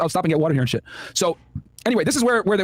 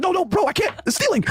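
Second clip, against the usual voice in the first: voicing Zokar; 10 semitones higher than usual.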